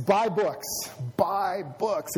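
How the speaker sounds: a hint of a passionate Rhodesian teacher's accent. Preacher quoting his college teacher urging students to read, light Rhodesian accent. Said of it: "he would say it in this Rhodesian accent".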